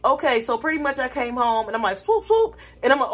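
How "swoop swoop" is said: imitated car swoosh; quick high-pitched mock driving sounds; high swooping noise. Pulling up at home, imitated high swooping noises.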